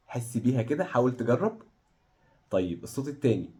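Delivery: ordinary delivery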